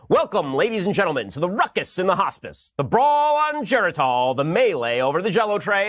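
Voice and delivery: lightly boomed ring announcer, slowing on the brawl; fight announcer. Shown as a demonstration. Host announcing the Biden Trump fight like a ring announcer. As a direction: call it like a boxing announcer. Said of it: "it would sound something like this".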